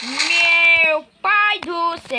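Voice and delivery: amazed exclamation. Real, not acted. Exclaiming at the sight.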